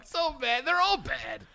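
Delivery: very high, squealed through laughter; helplessly laughing while admitting it; cracking up. Real, not acted. Joke teller owning a bad joke, laughing hard.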